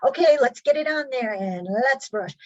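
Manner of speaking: chatty caregiver. Retold or imitated. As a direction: pile on the questions breezily. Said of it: "If you say something like".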